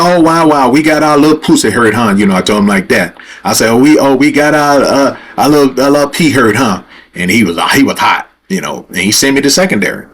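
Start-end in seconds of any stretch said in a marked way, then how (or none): 0.0-2.1 mocking, higher-pitched jeer; taunting. Driver sent to secondary inspection, taunting the officer. 3.7-6.8 mildly raised, mocking jeer; taunting. Driver mocking the border officer, taunting. Repeats his taunt, censored.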